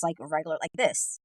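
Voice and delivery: flat monotone, no inflection; even-keel monotone delivery. Shown as a demonstration. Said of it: "me, I speak monotone".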